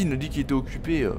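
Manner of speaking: ordinary talk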